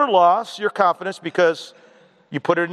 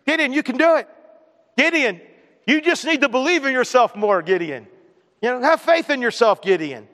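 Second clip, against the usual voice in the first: higher-pitched, hammed-up encouragement; mock pep talk; 6 semitones higher than usual. Preacher parodies what God doesn't say to Gideon, mock pep talk. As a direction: cheer him on in parody, falling on the name.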